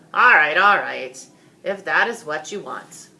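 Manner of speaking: loud, give-in sigh of a king; a king yielding to his sons; king relenting. Acted. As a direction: give in with exasperation.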